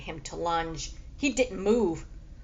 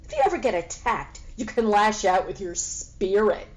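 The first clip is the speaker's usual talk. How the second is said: mocking cat; 3 dB louder, faster than usual.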